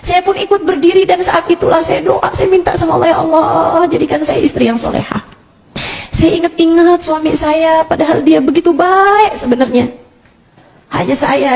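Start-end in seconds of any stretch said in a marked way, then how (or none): 0.1-9.9 high, pleading retelling; tearful prayer. Retold or imitated. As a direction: act out a wife praying through tears. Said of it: "dengan linangan air mata".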